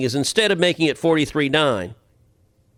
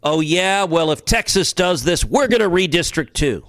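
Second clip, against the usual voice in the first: imitating an agitated, defiant retort, higher pitched; mock worked up; 5 semitones higher than usual. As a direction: play someone getting all worked up, pitched up. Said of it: "She got all worked up and said".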